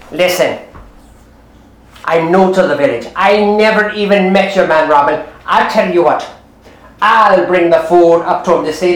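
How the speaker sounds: low-pitched, assured housemaid voice; sceptical housemaid. Acted. Housemaid telling the other thieves, low and sure. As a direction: drop the pitch and insist confidently.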